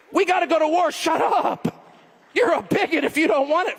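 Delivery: high, hectoring caricature; lightly mock someone shutting down debate; mocking war advocate. Mocks war advocates shouting down questions.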